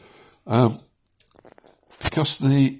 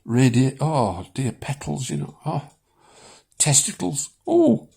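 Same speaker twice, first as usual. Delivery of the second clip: higher, hammed-up gushing over a flower; mock rapture; 5 semitones higher than usual.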